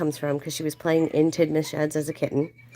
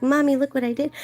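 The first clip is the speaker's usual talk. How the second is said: cat voice; 9 semitones higher than usual. Pretend. Voicing the proud cat.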